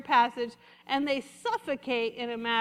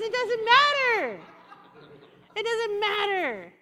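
high, slow, louder insistence; emphatic plea; 6 semitones higher, 5 dB louder, slower than usual. Acted. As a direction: plead the point hard. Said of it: "preacher pleading emphatically".

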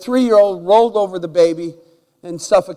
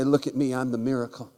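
tell your neighbor; 5 semitones lower, 8 dB quieter, faster than usual. Shown as a demonstration. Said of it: "Turn to your neighbor and say".

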